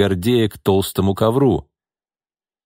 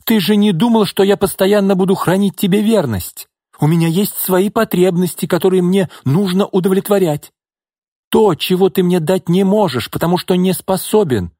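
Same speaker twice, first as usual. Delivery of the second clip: higher, louder shrill tirade at her lover; hysterical tirade; 9 semitones higher, 4 dB louder than usual. Acted. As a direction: keep screaming it at him. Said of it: "истерично завопила Орлова".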